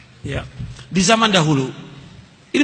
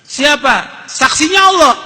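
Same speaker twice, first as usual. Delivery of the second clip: calling out; 4 semitones higher, slower than usual. Acted. Dialogue in the story.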